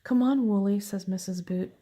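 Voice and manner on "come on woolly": much louder, higher call. A narrator's reading. Farmer calling the sheep to go home, calling out. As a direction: call the sheep over, storybook style.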